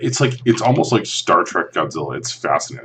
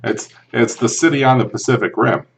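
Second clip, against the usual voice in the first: put-on hammy Boston accent, a bit louder; 5 semitones higher, 4 dB louder than usual. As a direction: lay on a thick Boston accent. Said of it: "That was a terrible Boston accent".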